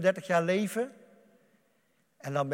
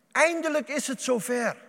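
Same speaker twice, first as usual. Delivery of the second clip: called out; 5 semitones higher than usual. Acted. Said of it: "riep hij".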